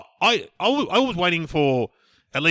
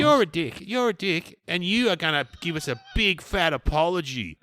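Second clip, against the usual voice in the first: arcing up; 5 semitones higher than usual. Retold or imitated. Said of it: "arcing right up going".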